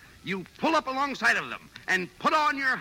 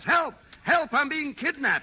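mock yell; 4 semitones higher, slower than usual. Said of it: "A girl leaps out and yells".

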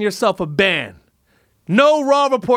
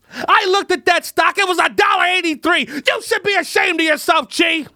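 higher, scolding rant building to a shout; worked-up rant; 6 semitones higher than usual. Acted. Scolding the Chinese leader over the stock, worked-up shouting. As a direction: tell him off until you're yelling. Ranting at Chi, then apologizes.

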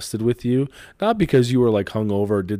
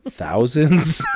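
laughing; 7 semitones higher than usual. Real, not acted. Laughing at endless questions.

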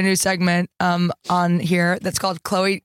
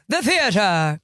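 mock grand thespian delivery; dramatic; slower than usual. Shown as a demonstration. Showing how theater sounds, mock dramatic. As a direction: say it like a stage luvvie. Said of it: "that to me is more just, like, dramatic".

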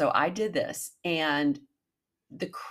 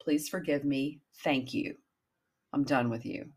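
gentle forgiving mantra. Shown as a demonstration. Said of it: "Then I go and I forgive myself".

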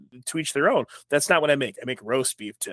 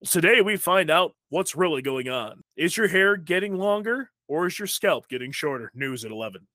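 news anchor impression; 3 semitones higher than usual. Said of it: "I just can't see myself be like".

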